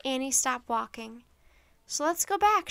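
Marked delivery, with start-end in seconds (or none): 1.9-2.7 high, louder burst of eagerness; excited idea. Acted. Annie suddenly urging Jack to go back, excited and high. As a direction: blurt it out, thrilled.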